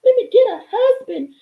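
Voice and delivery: high, crying, pleading wail to the Lord; hammed-up begging woman, voice breaking high; mock desperate prayer. Mocking women who beg God for a husband, whiny crying plea. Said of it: "You wanna sit up here and be like".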